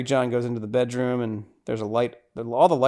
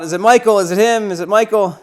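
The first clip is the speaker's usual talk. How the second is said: panicked crowd; 7 semitones higher, 7 dB louder than usual. Retold or imitated. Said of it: "everyone starts freaking out".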